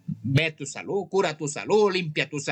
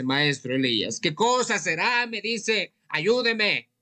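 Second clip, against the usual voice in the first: raised, pleading voice of a worried client; 4 semitones higher, 3 dB louder, slower than usual. Retold or imitated. A worried client begs maestro Elías for help, pitched up and pleading. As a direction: beg the healer for help, pitched up.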